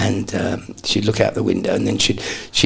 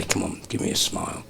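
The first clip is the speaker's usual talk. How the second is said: mum's coaxing; 5 semitones lower, 7 dB quieter than usual. Retold or imitated. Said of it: "She'd say".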